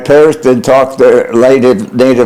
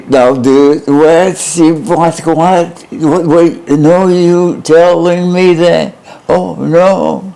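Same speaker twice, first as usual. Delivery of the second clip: imitating neighbour Belinsky's heavy Polish accent, higher and slow; mock the Polish neighbour's accent, pitched up and drawn out; 6 semitones higher, much slower than usual. Asked how the neighbour sounded, mocks his Polish accent. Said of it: "How would Belinsky sound when he spoke?".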